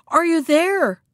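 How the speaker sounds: high, impatient demand, falling at the end; very cross call. A narrator's reading. Shark to the silent monkey, very cross. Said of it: "louder than before, and in a very cross voice".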